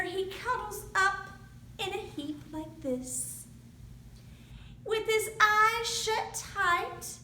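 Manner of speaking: put-on lively read-aloud for young kids; storytime narration. A narrator's reading. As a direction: tell it like a picture book at the library. Reads picture book to children.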